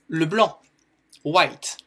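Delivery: "white" said alone, loud and deliberate; teacher's clear model. Shown as a demonstration. A teacher models the color words loudly for the class. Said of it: "Donc, white".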